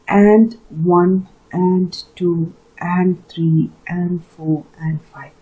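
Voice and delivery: light "and", stressed number in "and one, and two"; iambic stress. Shown as a demonstration. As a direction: lean on each number after "and", from "one" to "five". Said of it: "So here stress is on one".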